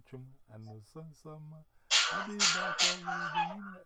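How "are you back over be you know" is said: pushed out louder with a rising end; louder repeat. Acted. Friend repeating the question louder to be heard. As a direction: call the question out again, louder.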